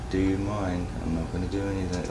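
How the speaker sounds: hushed, confidential undertone; whispering. Acted. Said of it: "kinda gets close to Baron and whispers".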